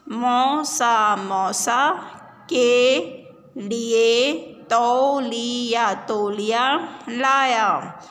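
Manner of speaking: slow, chanted reading with repeats; sing-song reading. Shown as a demonstration. Teacher chanting a reading line for pupils. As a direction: chant it slowly so children repeat. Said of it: "reading drill with the class".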